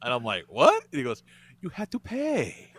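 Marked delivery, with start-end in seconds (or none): 0.5-0.8 sudden, high, loud disbelieving "What?"; shocked "what?". Retold or imitated. Guest shocked at being asked to pay: loud, high "What?". 1.6-2.7 slow, soft imitation of a meek waiter; quiet, under his breath. Imitating the meek waiter asking for payment: slow, quiet, under his breath. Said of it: "Very quietly, under his breath".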